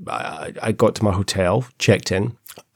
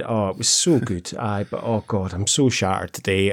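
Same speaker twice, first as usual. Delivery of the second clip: put-on broad Scottish accent. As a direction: play a cheery Glasgow check-in lady. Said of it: "she's like".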